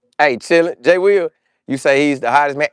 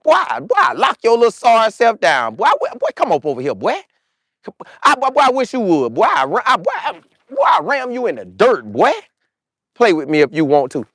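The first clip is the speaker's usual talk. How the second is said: put-on higher trash talk, boy boy; 4 semitones higher than usual. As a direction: taunt him like a cornerback. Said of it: "a D B gonna talk that trash".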